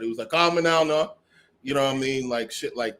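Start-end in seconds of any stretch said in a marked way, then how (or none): 0.3-1.1 "Call" as "cah", Jamaican accent; proper Jamaican accent. Shown as a demonstration. Showing friends the proper way, Jamaican accent with "Call" as "cah". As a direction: say it the real Jamaican way, open vowel. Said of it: "that's the proper way".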